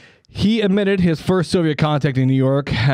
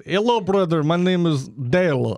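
a spy badly pretending to be from Chattanooga; fake Southerner spy; 3 semitones higher than usual. Spy poses as Southern man.

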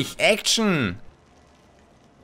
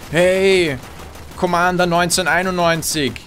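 mock angry gamer; 3 semitones higher, 3 dB louder than usual. Imitates angry player calling out camper.

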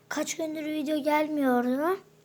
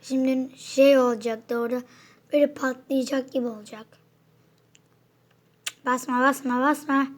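chewing spicy food while talking; mouth full of hot food. Real, not acted. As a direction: talk around a hot, spicy bite. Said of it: "dilim yanıyor şu an". (ağzı dolu, acıdan yanarak)

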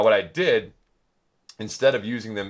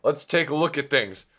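Turbo Nerd voice; 6 semitones higher than usual. Acted. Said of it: "You're doing Garden Sound's voice".

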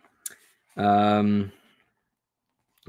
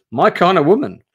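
higher, louder admiring joke; delighted quip; 8 semitones higher, 10 dB louder than usual. Real, not acted. Streamer reacts to the scarred fisherwoman, thrilled. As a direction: cheer her on with a laugh in the voice.

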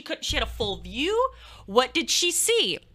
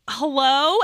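louder, questioning hello with a rise; a hello that really asks what's happening; suspicious hello; 4 dB louder than usual. Retold or imitated. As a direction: mimic a wary visitor's hello. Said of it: "is like she has been standing there".

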